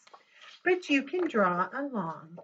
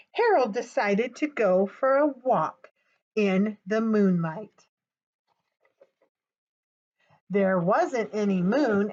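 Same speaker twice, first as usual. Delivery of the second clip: put-on gentle storybook reading for children; story narration; 3 dB louder than usual. The reader reads Harold to young kids, storybook voice. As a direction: read it like bedtime for little listeners. Reads a picture book aloud.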